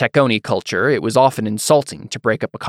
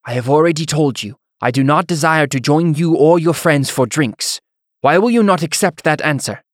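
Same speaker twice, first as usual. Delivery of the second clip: put-on higher, exasperated Taconi-accented refusal; thick Taconi accent; 5 semitones higher, 4 dB louder than usual. A narrator's reading. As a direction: stand your ground in a formal Taconi accent. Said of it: "the Taconi immigrant responded to Temeth".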